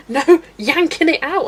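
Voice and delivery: high, loud, drawn-out mock alarm; mock panic. Streamer reliving sharpener eating the pencil, comic panic. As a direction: cry out in comic desperation.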